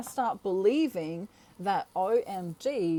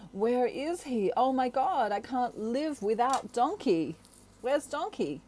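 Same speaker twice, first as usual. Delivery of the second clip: higher, anxious mock panic; frantic searching cry, hammed up; 4 semitones higher than usual. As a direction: play up the worry over the missing man. Acted panic over missing man.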